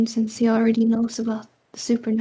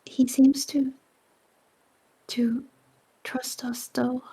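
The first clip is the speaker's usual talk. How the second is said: whispered protest. Acted. Angel whispers defence.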